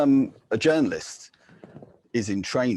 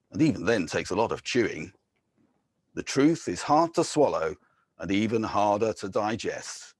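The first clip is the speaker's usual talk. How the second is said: poem reading; 2 semitones higher than usual. Acted. Poet guides listeners through the City of Truth, ironic. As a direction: deliver it like a wry brochure with pointed pauses.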